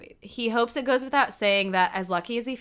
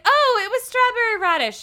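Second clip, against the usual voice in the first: imitating Moira; 10 semitones higher, 5 dB louder than usual. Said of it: "Moira's like".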